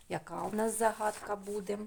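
ordinary talk

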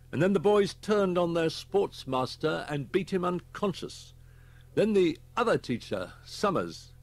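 grave inspector. Acted. Inspector briefs Holman on the school deaths, grave. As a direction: report the grim facts firmly.

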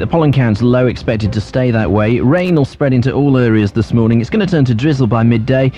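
low-pitched radio weather bulletin; weather forecast read. Real, not acted.

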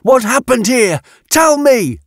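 high, fierce interrogation; barked demand. A narrator's reading. Yatena interrogates the woman in grey, barking demands. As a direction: demand answers in a rising pitch. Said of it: "she barked".

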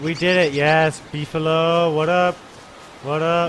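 excited. Real, not acted. Celebrating finding Beefalo.

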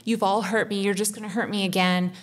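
a retold flash of rage at her partner, mildly acted; mock angry outburst. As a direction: throw the curses out like a half-acted tantrum. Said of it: "kicking and screaming and punching in your energy".

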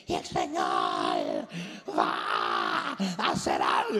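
very low, slow, dragging preacher voice; mock a tired pastor with no life in him; sleepy droning sermon impression; low-energy preacher. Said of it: "Tienen como un derriengue".

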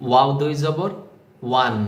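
ওয়াও দুই জবর spelled out on a rise, then ওয়ান with a rounded w; teacher's careful spelling-out of ওয়ান; demonstrated pronunciation. Shown as a demonstration. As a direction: model ওয়ান as one falling syllable after a rising ওয়াও দুই জবর. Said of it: "দেখুন কিভাবে উচ্চারণ করছি".

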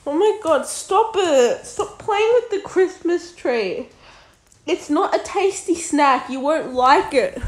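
scolding cat. Real, not acted. Scolding cat at Christmas tree.

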